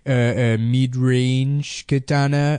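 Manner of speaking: put-on hesitant nerd in a made-up accent; mock a video host with a weird invented accent; odd accent, fumbling through the presentation; That Sodding Gamer. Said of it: "this weird accent he made up".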